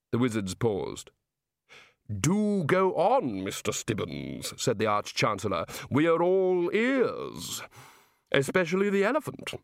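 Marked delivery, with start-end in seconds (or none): 2.1-9.5 put-on slow, hearty old Arch-Chancellor; lightly voiced bluff head wizard, slow; Arch-Chancellor Ridcully. Ridcully speaks.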